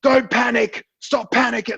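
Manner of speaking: imitating angry dad. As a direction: snap back like an irritated father. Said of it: "they get really angry".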